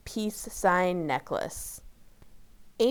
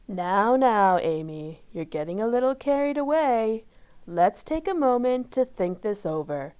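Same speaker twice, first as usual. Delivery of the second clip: calm; 2 semitones higher, 3 dB louder than usual. Acted. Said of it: "said a calm voice".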